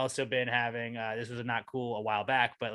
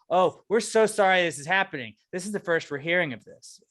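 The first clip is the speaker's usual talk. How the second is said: mock apology; 6 semitones higher, 5 dB louder than usual. Mocking office staff apology.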